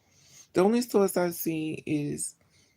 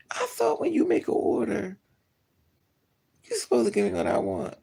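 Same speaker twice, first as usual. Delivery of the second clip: pitched-up protest, speeding at the end; high indignant complaint; 6 semitones higher than usual. Retold or imitated. Telling the cashier he should give what she ordered, high and indignant. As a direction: squeak it out like you can't believe it. Complaining about unwanted biscuits.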